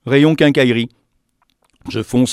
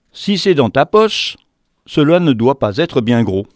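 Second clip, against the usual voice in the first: sly little air; 5 dB louder than usual. Acted. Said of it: "avec son petit air futé".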